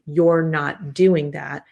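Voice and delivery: slow, measured mock scolding; slowly spaced, restrained telling-off; behavioral correction. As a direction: imitate a parent laying down a rule. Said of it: "taking a behavioral approach to the child and saying".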